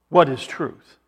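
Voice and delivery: mildly mocking question; a touch of mockery. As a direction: toss out the question with understated mockery. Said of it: "Pilate said mockingly".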